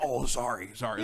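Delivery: sheepish put-on apology; a lightly voiced, embarrassed star; Nicolas Cage. Cage apologising to the audience: sheepish put-on voice.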